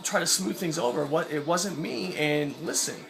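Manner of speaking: smooth it over gently, like calming a hothead; totally calm and nice. Retold or imitated. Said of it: "I'm totally calm, totally nice".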